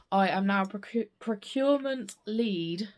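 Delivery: stumbling over a gap in the teeth; missing tooth. Real, not acted. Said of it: "it's hard to say with a missing tooth".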